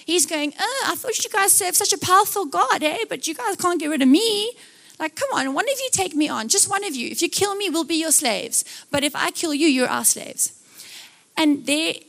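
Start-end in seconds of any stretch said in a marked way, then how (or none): 0.6-10.5 taunting giant. Retold or imitated. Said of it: "giant Goliath who is insulting his".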